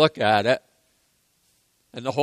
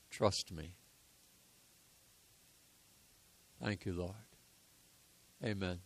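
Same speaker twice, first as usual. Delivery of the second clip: closing prayer. Acted.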